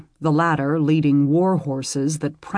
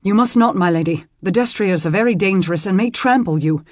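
put-on urgent young squire; 4 semitones higher, 5 dB louder, faster than usual. Squire restraining lady.

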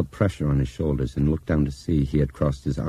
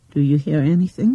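mimicking; 12 semitones higher, 6 dB louder than usual. A narrator's reading. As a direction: parrot his words back, pointed. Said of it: "she mimicked".

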